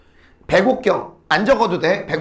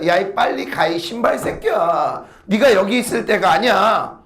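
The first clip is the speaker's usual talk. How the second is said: mildly scold, stretching the last syllables; mock scolding. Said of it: "꾸짖는 거야". (꾸짖는 척 끝을 늘여서)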